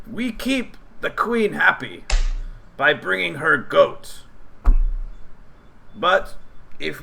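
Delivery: a mild high goblin, pausing to tell a secret. Acted. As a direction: goblin warning travellers of Dark Bottom. GM voices goblin NPC.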